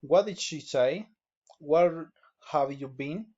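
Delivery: "What did she say?" and "have you been?" lifted at the end; friendly rising questions, up on "say?" and "been?"; rising intonation. Shown as a demonstration. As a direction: let "been?" climb politely. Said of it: "reaching intonation".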